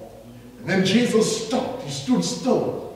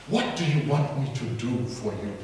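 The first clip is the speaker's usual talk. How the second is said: gentle question; 7 semitones lower, 6 dB quieter than usual. Acted. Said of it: "So he says".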